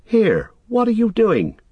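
high, loud challenge; suspicious cry. A narrator's reading. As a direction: cry out sharply, suddenly suspicious. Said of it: "cried Sam".

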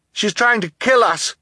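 high, urgent shout to a crowd. A narrator's reading. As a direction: shout for the audience's help. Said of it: "Klaus shouted to the audience".

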